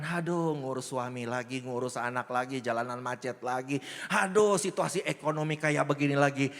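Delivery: weary grumble, mostly low-pitched; mock-complain through a list of daily burdens; keluhan lesu. Acting a weary morning grumble. (mengeluh lesu, pura-pura capek)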